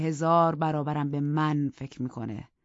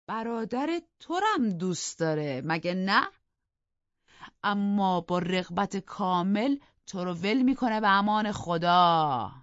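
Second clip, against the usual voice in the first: scornful; 4 semitones higher than usual. Acted. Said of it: "با حالت تحقیر آمیزی".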